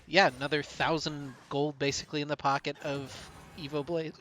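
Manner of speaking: talking through hiccups; hiccuping mid-sentence. Real, not acted. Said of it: "I don't know why I'm hiccuping now".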